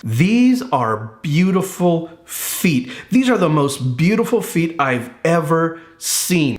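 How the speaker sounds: slow, tender admiration. Retold or imitated. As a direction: gently marvel at each one. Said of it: "Jesus is thinking this".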